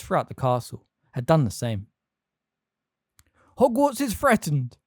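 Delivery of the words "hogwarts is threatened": loud and slowed, a battle call; shouting. A narrator's reading. McGonagall rallies the statues, slow and loud. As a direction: rouse them with a slow loud cry. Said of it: "shouted Professor McGonagall".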